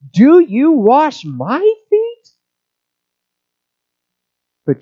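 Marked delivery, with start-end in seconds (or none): 0.1-2.3 slow, higher shocked "Do you wash my feet?"; shocked emphatic question. Retold or imitated. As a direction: voice Peter's disbelief, stretching each word. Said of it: "Peter responds with shock and emphatically".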